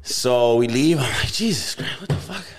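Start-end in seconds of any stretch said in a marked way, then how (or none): 1.3-2.4 high, strained exclaim of disbelief; mock shocked outburst. Leaving the bar after the standoff, a mock shocked outburst. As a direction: blurt it out in retold shock.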